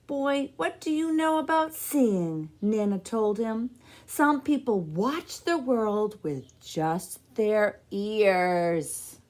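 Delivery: a hint of a no-nonsense grandmother; lightly voiced grandma. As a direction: set the boy straight, then brighten. Nana scolding gently.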